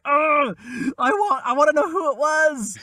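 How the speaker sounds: high, loud whiny plea; mock desperate wail. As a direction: beg to know like a wailing child. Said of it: "And I was like".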